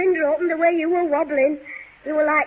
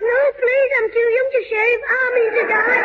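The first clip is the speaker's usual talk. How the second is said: pleading cry; 4 semitones higher, 3 dB louder than usual. Acted. Boy begs for his life.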